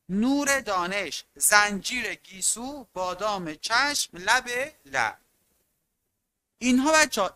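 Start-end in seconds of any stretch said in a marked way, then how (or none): 0.1-5.2 each pair of words said slowly and carefully, one by one; reading list words slowly. Shown as a demonstration. Teacher reads comparison phrases slowly to students. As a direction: give students time to find each part of the comparison.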